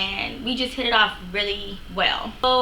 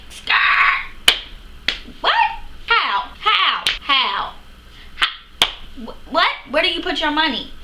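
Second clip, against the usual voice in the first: incredulous outburst; 6 semitones higher, slower than usual. Retold or imitated. Retelling to viewers her shock at the date's money confession, incredulous. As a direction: spit out each How? in shock.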